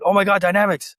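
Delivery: mock the homie's thrilled hello; excited fan. Homie at an event spotting the DJ, excited. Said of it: "He's like".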